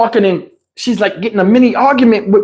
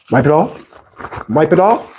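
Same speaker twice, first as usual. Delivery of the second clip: incredulous anger; 7 semitones lower than usual. Retold or imitated. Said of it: "Now I'm hot".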